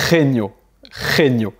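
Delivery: genio opening on a throaty kh, khé-nyo; Spanish G as guttural R. Shown as a demonstration. Teacher showing G before E, genio said khé-nyo. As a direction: say genio with a scraped back-of-throat G. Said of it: "ça va se prononcer".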